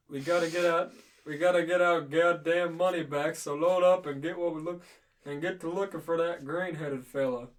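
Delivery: lightly voiced gruff old man. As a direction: grumble orders like an old boss. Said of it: "prep your old man voice".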